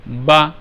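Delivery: বা short and even, voice stopped promptly; teacher's model of a brief, steady বা; short, unforced vowel. Shown as a demonstration. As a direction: say বা and close off the sound as soon as the mouth opens. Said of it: "আমি দেখতে বলছি".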